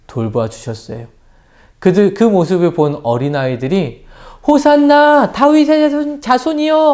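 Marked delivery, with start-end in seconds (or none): 4.5-6.9 put-on high, loud joyful children's shout; children's praise cry. Preacher acting children hailing Jesus, high joyful cry. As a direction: cheer it like excited kids. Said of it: "하면서 예수님을 막 높여드리고".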